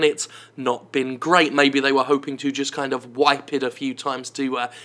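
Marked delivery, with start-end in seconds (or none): 1.5-4.7 sarcastic. Acted. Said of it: "I'm being sarcastic".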